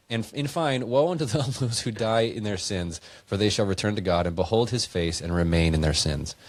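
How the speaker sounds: put-on measured, solemn reading of an old verse; scripture reading. Friend reading verses to a podcast co-host, solemn scripture read. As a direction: read it out like holy writ.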